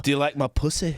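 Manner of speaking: imitated Hull woman; Hull accent. Man quoting drunk lap dancer from Hull, mimicked Hull accent. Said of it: "a girl with that accent from Hull".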